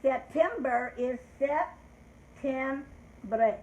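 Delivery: septiembre said slowly in Spanish, sep-tee-EM-breh; slow Spanish word. Shown as a demonstration. Teacher models septiembre slowly for the class. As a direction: stretch out septiembre for the kids. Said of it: "in Spanish".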